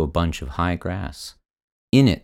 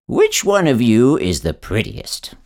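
calling out; 5 semitones higher, 6 dB louder than usual. A narrator's reading. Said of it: "he called to the cats".

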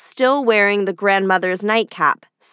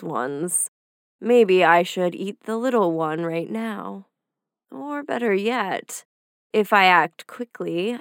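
wolf scheming to himself; 2 semitones lower than usual. Acted. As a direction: plot the meal under your breath, a hungry wolf. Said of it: "He thought to himself".

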